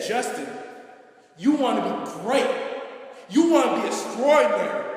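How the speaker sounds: God calling him to greatness; rising commanding voice of God. Retold or imitated. Voicing God's message.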